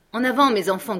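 rally them forward; shout. Acted. The doctor shouting his men forward. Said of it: "cria le docteur".

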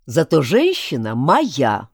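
familiar tone. Acted. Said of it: "его фамильярный тон".

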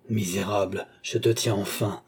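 muted roar of triumph. Acted. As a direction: growl it with restrained fury. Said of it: "rugit Philippe".

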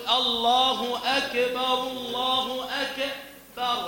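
الله أكبر slowly, with "ak-e-bar" bounce; bounced kaf. Shown as a demonstration. Teacher demonstrates a wrong qalqala on the kaf. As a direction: add a tiny vowel after the k in أكبر. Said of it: "قلقلة الكاف".

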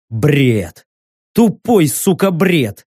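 furious outburst; angry. Acted. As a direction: spit it out in disgust. Narrator curses angrily.

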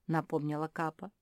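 ordinary delivery, nothing marked

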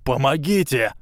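high, fearful cry for help; panicked plea. A narrator's reading. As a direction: beg in panic. Quirrell panics, calls for help.

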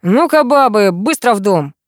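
loud commanding bark; snapped order. A narrator's reading. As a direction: order the women inside. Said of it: "рявкнул полковник".

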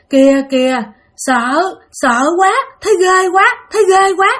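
high-pitched, scared little cry; frightened child. Acted. Small child to big sister about the ceiling, frightened.

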